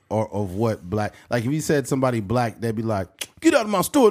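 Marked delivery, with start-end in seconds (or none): 3.4-4.1 higher, mock white store owner; white guy voice. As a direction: play a white shop owner lightly. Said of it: "some white guy making that voice".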